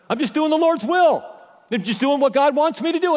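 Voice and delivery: high, pushed, whining believer; hammed-up self-pitying whine; whiny complaint. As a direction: whine that you did everything right.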